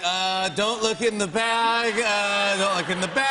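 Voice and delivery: mock guilty pleading. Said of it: "you're like".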